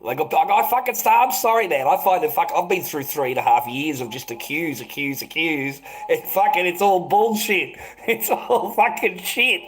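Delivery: real laughter breaking through; laughing rant. Real, not acted. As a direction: laugh it off in disbelief. Laughing rant about bullshit.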